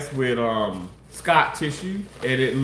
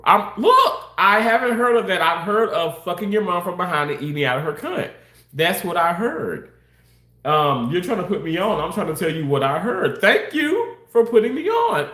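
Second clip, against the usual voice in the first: defensive; 4 semitones higher than usual. Real, not acted. Defensive rant at chat.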